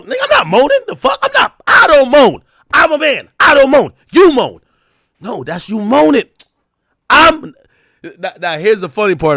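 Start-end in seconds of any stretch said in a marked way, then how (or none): 0.0-7.5 much higher and louder, yelling I'm not moaning; denial shout.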